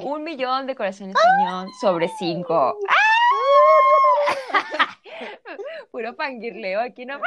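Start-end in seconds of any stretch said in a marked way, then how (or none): 3.0-5.9 high shrieking laugh; fangirl shriek laugh. Real, not acted. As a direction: squeal with delight.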